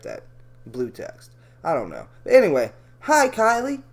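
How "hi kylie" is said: wrong voice. Shown as a demonstration. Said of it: "Wrong voice".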